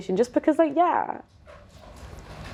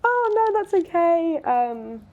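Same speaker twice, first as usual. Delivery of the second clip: playing it down; 4 semitones higher than usual. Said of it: "I was like".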